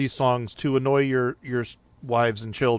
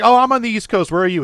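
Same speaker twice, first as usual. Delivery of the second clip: surprised; 9 semitones higher, 6 dB louder, faster than usual. Retold or imitated. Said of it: "I was like".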